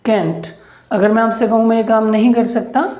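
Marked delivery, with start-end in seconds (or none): 0.0-0.5 can't said as "kent"; can't with a short e vowel; saying can't. Shown as a demonstration. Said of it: "can't को क्या बोलेंगे?".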